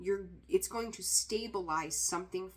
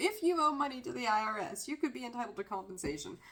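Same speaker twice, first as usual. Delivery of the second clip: pitched-up tv commercial announcer voice; 5 semitones higher than usual. Giving a money reading and slipping into a TV commercial voice. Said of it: "I'm gonna sound like that fucking commercial".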